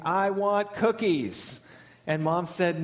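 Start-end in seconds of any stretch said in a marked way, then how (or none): 0.0-1.6 slow, higher toddler demand, only lightly acted; half-hearted retold scream; mock crying kid. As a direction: imitate a child's drawn-out tantrum demand. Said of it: "the kid was just crying and screaming".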